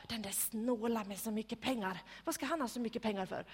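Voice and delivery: ordinary delivery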